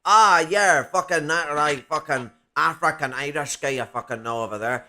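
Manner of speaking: a loud burst, then a lightly put-on Scottish accent; mock Scottish accent. Local pointing out the African Irish guy, in a half-hearted Scottish accent. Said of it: "I don't know why I'm going Scottish".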